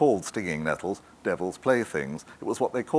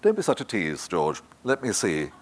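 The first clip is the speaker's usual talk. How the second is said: light, forced casual. Acted. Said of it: "said as lightly as she could".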